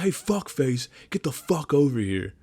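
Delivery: tearing into him. Retold or imitated. Corporal retelling how he summoned a dumb private, mock anger. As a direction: act out summoning a subordinate, mock angry. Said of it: "I tore into this kid".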